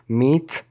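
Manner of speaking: "Meet" alone with its final t; sounded T. Shown as a demonstration. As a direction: finish "Meet" on a separate t. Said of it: "تی داریم". («Meet» جدا و با تی)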